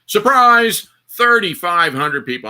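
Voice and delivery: loud high "Surprise", then slowing on the numbers; spring it on them like a sudden reveal; hammed-up surprise reveal; mock surprise announcement. Retold commander's sudden announcement.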